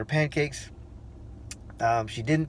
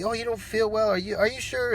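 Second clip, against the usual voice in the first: high-pitched, lightly voiced mom; concerned mother; 7 semitones higher than usual. Mom talking down to unwell son, lightly imitated concern. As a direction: check on a small child, pitched well up.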